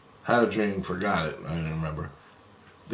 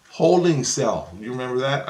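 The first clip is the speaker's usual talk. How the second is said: scornful retort; 3 semitones higher, 4 dB louder than usual. Retold or imitated. Mocking Chris's excuse.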